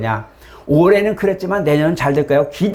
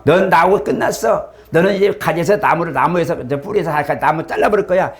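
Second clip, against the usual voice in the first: higher, stern voice of God cutting off; 5 semitones higher than usual. Retold or imitated. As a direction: voice a stern Lord rejecting. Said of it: "주님이 막".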